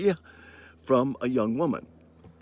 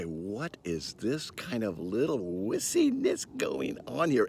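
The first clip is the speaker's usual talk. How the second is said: mocking patriarchal voice; 2 semitones higher, 3 dB quieter than usual. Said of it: "did the patriarchal voice in me raise and say".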